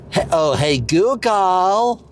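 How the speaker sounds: second go at an American accent; restart, then an American-accented call lifting at the end; attempted American twang. Shown as a demonstration. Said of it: "say it in an American accent".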